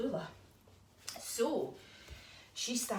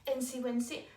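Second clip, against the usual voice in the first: a hint of a higher little owl voice; lightly voiced grateful owlet; 5 semitones higher than usual. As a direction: thank the spider sweetly as the owlet. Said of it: "And Tallulah says".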